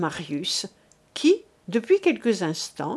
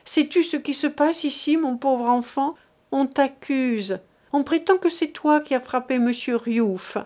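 a lightly voiced anxious mother; pleading mother; 3 semitones higher than usual. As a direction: beg him to defend himself.

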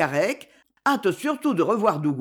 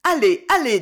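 out of breath, urging on; breathless old speaker; 5 semitones higher, 6 dB louder than usual. Acted. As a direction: gasp it out, winded. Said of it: "tôt essoufflée".

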